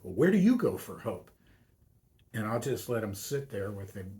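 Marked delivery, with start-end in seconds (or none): 0.0-1.3 mock vehement retort, louder; vehement throw-back. Student snapping the question back at the priest, vehement. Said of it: "the vehemence of their reaction".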